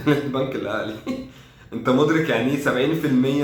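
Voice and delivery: chuckling, can't believe it; incredulous laughing. Real, not acted. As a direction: laugh through the words in disbelief. Laughs at his team's possession figures.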